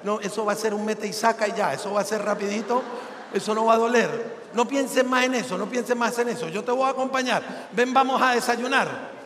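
softly voiced sweet wife, a touch coaxing. Wife soothes husband before the urologist, softly sweet. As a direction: coo at him gently like a kind wife. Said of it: "la esposa tan amable siempre le dice".

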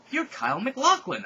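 high, loud starstruck shout; excited shout. Acted. Heroine recognizing Kyle MacLachlan, high excited shout. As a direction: shout his name in disbelief. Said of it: "I shouted".

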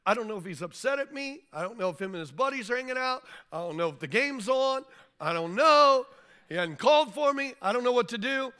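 anxious queen fretting over the silent king; upset Esther. Retold or imitated. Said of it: "she gets upset and she goes".

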